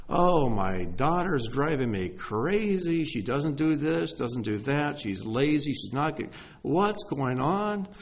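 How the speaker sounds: lightly acted complaint, slow and drawn out; exasperated parent. Preacher imitates parents calling about their kids, mildly exasperated. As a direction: play a fed-up parent, stretching the words.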